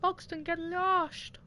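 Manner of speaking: loud and slow; yelling. Real, not acted. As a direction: yell it out, drawn out. Retakes the yell after the crack.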